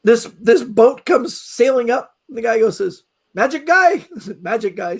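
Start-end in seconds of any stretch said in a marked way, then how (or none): 3.3-3.9 "Magic guy." called out much higher, stress on "guy"; cheery boatman. Retold or imitated. Boatman greeting the speaker at the pier, high cheery call. 4.4-4.9 "Magic guy." echoed through a laugh, falling tune; amused repeat. Retold or imitated. The speaker echoes the boatman's phrase, laughing.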